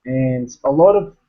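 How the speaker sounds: put-on Australian accent with lazy tongue; casual Aussie accent, vowels changed. Shown as a demonstration. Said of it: "try to do an Australian accent".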